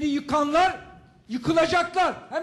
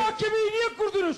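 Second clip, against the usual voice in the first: shouting at court; 8 semitones higher than usual. Real, not acted. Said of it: "bağırma hakkınız yok".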